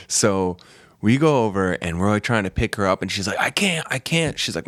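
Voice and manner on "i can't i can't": high pleading imitation; helpless old woman. Injured woman to the men lifting her, pleading. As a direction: lift the pitch for a mock helpless plea.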